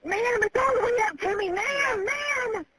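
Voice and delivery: shouting for the dispatcher in fear; frantic calling. Real, not acted. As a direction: call out ma'am desperately as water rises. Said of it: "I'm scared".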